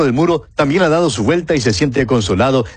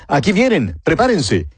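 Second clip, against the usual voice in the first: mild mock shout; 5 semitones higher than usual. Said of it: "Un atalaya en el muro grita".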